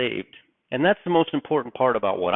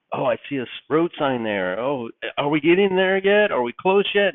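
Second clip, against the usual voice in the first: put-on eager kid, jumping higher on the questions; enthusiastic younger child; 4 semitones higher than usual. Youngest child pestering father about arriving, enthusiastic. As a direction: pester with rising childlike excitement. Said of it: "I love that enthusiasm".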